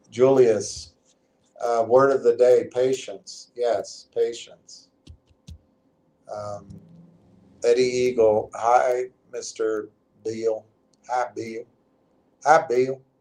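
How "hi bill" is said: put-on Southern US accent. Greeting someone by name the way it's said in the South: Southern accent. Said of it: "That's how they say it in the South".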